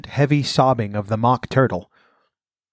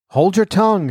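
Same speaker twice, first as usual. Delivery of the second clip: a high, louder snap to silence her; sharp snap; 8 semitones higher, 4 dB louder than usual. A narrator's reading. Gryphon snaps at Alice.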